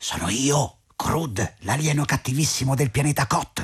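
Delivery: hushed, secretive stage whisper. Hiding in a corner, an alien character introduces himself to another character, half-whispering. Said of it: "mi parli sottovoce".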